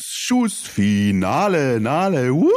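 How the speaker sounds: high, drawn-out funfair hype call; fairground ride announcer. Pretend. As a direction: whoop the riders through the final drop. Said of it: "Passend zum Cannstatter Volksfest". (Kirmes-Ansager, hoch und jubelnd)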